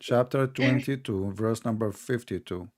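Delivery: slow, deliberate citation; slowly. Real, not acted. Host repeats the chapter and verse for his opponent, slowly. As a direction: spell out the reference at an unhurried pace. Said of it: "I have to say it slowly".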